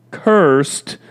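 "cursed" repeated with weight, then a pause; emphasis on cursed. Real, not acted. Preacher repeating the curse on the ground, "cursed" emphasized. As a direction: lean firmly on "cursed". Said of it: "I'll put the emphasis on the word cursed".

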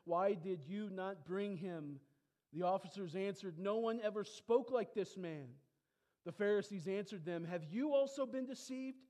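measured Bible reading; scripture reading. Acted. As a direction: read the passage steadily to the church. Reads scripture passage aloud.

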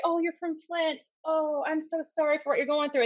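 lightly acted pitying condolence; imitated pity. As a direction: imitate people feeling sorry for you. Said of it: "And the pity".

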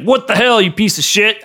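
mock berating. Retelling a TV dad berating his son, mock berating. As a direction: berate him in mock outrage. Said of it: "totally berates him".

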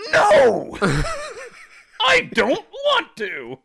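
put-on high, loud childish No then slow whine; whiny refusal. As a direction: refuse like a sulky kid.

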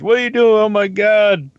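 mock panicked high-pitched scolding; alarmed messengers. Podcaster mimicking messages about his Chinatown posts, mock alarm. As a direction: imitate fretting followers, voice jumping up high. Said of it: "I get all these messages".

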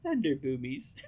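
lightly imitated British accent; mild put-on British voice; high-pitched British voice. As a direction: give a small mock-British squeak. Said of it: "in a British accent and a super high-pitched voice".

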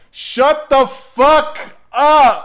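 slow, high, loud screamed command; furious scream. Retold or imitated. Wife screaming at the drunk neighbor from the window, high furious yell. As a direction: shriek it out the window.

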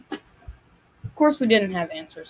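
talking with seeds in mouth; mouth full. Real, not acted. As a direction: speak around a mouthful of seeds. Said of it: "I'm just spitting out the sunflower seeds".

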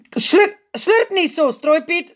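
high, loud hurried scold; quick scolding. A narrator's reading. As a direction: rush the rebuke. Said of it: "zegt hij snel".

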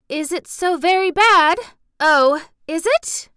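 high, loud, scared plea; frightened pleading. Acted. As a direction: beg desperately for reassurance. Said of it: "lifted imploringly".

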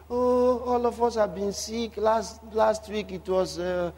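mildly hammed-up litany of woes; mock complaining. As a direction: list every ailment like a weary complainer. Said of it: "They complain of everything".

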